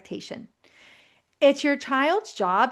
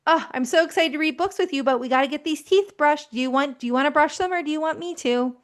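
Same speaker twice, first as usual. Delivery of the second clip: excited, upbeat; 4 semitones higher, faster than usual. Shown as a demonstration. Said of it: "You say".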